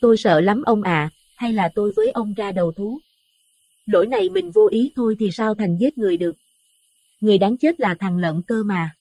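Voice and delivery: high pleading voice near tears; frightened, tearful. A narrator's reading. Wife begs husband to turn themselves in, high and tearful. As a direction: beg him through fear. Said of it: "Bà sợ hãi khóc lóc nói".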